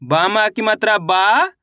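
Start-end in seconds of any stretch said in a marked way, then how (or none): 0.0-0.3 बा with a long aa, rising at the end; drawn-out vowel. Shown as a demonstration. Teacher spelling out for pupils, बा drawn out. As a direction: stretch बा and lift its tail. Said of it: "बा को खींच के पढ़ना है".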